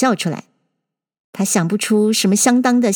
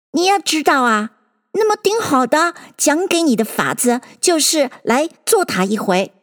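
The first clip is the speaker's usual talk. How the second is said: lightly voiced Dodo, pitched up; a hint of a higher character voice; explaining Dodo; 4 semitones higher than usual. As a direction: explain as a storybook bird.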